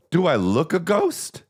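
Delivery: high, slow rising question; drawn-out quote of a tourist asking; mock woman's voice, slow and rising; imitating the woman. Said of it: "That's what she said".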